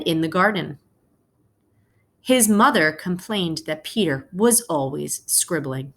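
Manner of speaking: gentle read-aloud to the class; story narration. A narrator's reading. Teacher reading a picture book to her class, storytelling voice. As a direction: tell the story slowly to your students.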